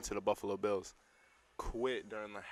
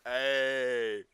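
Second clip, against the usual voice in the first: loud cartoon duck squawk; splattery duck-voice call; Donald Duck; 3 semitones higher, 8 dB louder than usual. Shown as a demonstration. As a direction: quack the greeting out. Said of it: "wanna hear my Donald Duck impersonation".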